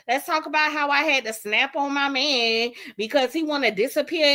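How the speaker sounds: lightly voiced sassy girlfriend; imitating Callie. Mocking Callie snapping on her man, light attitude. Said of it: "That's exactly how he sound".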